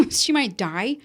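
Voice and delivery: retold laughing question, rising on "die"; laugh, then echo it as a disbelieving question; incredulous echo after a laugh; laughing disbelief. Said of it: "fucking laughed".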